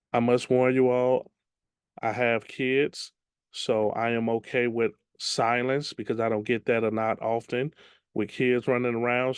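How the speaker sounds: ordinary delivery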